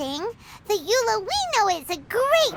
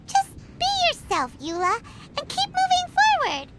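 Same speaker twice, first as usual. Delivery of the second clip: lightly voiced wise bard, a bit higher; mock-sage advice, sung out; quoting the bard; 8 semitones higher than usual. Quoting the bard's advice to Eula in a light, lofty voice. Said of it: "Tontiff Bard said something wise".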